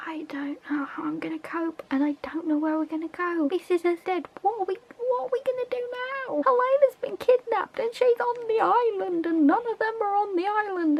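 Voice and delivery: high, wailing dismay; distressed fan. Real, not acted. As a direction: fret aloud in high-pitched despair. Fan despairing over character's fate.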